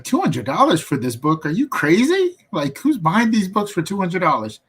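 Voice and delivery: retold disbelief, jumping high on crazy; incredulous. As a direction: scoff at the price like it's absurd. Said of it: "but I was like".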